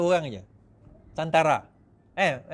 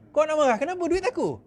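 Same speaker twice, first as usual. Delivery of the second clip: mock smug candidate; 8 semitones higher than usual. Imitating defector.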